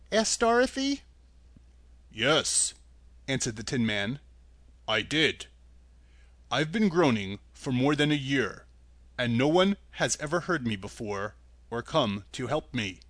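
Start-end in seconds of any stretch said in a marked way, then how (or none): 2.1-13.0 lower, mournful tin man; lonely and weary, long stuck in the woods; sad voice. Acted. Rusted Tin Man tells Dorothy of his long wait, sad and low. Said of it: "the sad voice in which the man spoke".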